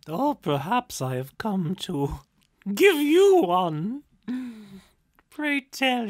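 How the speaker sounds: high, loud coquettish spirit; teasing spirit. A narrator's reading. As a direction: flirt boldly, slowing on give you one. Spirit voiced in story.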